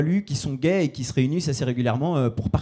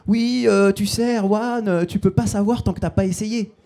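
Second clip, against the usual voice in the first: higher, coaxing imitation of a pushy suitor; lightly voiced suitor; 5 semitones higher, slower than usual. Man at a party trying to convert comic, high coaxing imitation. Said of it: "Il est venu vers moi en soirée".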